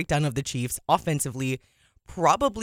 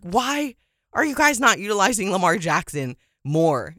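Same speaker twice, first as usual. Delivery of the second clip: higher-pitched fan yelling at the TV, held back; mock exasperated yelling; 4 semitones higher, 3 dB louder than usual. Fans to the TV over Lamar Jackson's play calling, mock yelling. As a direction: retell a frustrated yell at the screen. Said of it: "like, yelling at the T V".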